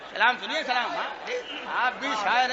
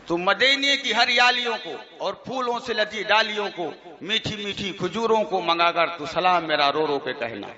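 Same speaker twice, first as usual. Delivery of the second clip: tuneful verse recital, lightly mocking; reciting a rival's verses to make fun of them; mock poem recitation; 2 semitones lower than usual. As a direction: chant the couplets with a half-hidden smile. Recites mocked salaam verses.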